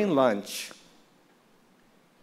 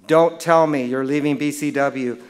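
loud retold scolding; mock exasperation; 7 dB louder than usual. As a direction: scold the caller with hammed-up disbelief. Mentor scolds caller in retold call.

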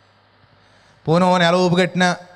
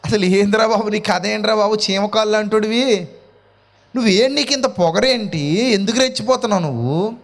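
raised pitch, scoffing rhetorical questions; mocking incredulity; 4 semitones higher than usual. Preacher scoffing at people who get puffed up, mocking incredulity. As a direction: take an arrogant man down with amused disbelief. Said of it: "వాళ్ళని చూసినప్పుడు నవ్వు వస్తుంది".

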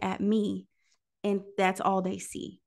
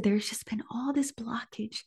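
whispered; 5 dB quieter than usual. Acted. God's words whispered.

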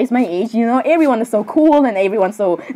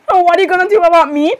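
higher-pitched, indignant comeback; indignant echo; 5 semitones higher, faster than usual. Acted. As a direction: throw the question back, pitched up. Malfoy echoes the question back.

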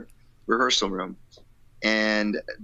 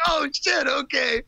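mock surprise; slower than usual. Mock panic at friend's news.

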